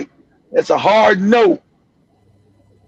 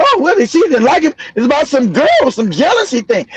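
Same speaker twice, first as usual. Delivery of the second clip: high, sing-song mock of their excuse; 4 semitones higher than usual. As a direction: toss off their story in a high, scoffing voice. Mocking the suspects' excuses.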